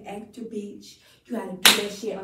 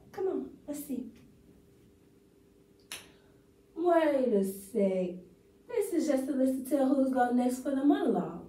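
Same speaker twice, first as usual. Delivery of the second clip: lightly acted letdown; a winner realizing she won nothing; monologue take. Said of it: "Take one".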